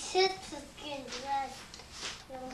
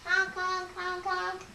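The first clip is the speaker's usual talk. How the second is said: playful honking clown noises; silly clown; 3 semitones higher than usual. Pretend. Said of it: "here comes Whitney the Clown".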